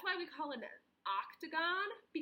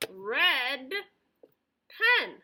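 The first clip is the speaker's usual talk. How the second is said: excited reveal; 9 dB louder than usual. Real, not acted. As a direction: show it off excitedly. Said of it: "showing the pen with excitement".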